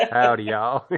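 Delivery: playful stereotyped Southern greeting; light mock Southern twang; Southern accent. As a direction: drawl it like a caricature Southerner. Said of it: "the Southerners are always picked on".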